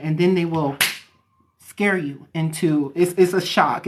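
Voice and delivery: normal talking voice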